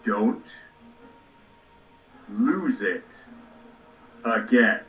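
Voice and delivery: put-on low, slow old man. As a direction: play a stern old soldier, voiced low. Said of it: "He's gonna say".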